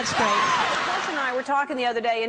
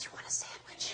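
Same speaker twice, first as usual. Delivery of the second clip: very soft, hushed, barely audible whisper. Imagining calling across the house with dog hearing: whispering. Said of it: "and I would whisper".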